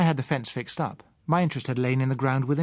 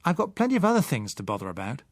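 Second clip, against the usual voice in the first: irritated. Acted. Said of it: "a little irritated by her tone".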